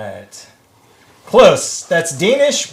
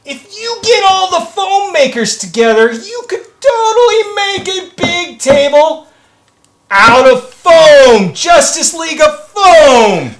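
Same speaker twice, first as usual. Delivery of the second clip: higher and louder, building excitement; excited chat read; 11 semitones higher, 6 dB louder than usual. Retold or imitated. Reading a fan's idea to the stream, hammed-up excitement. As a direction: sell the foam idea like a big reveal. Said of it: "Advexen said".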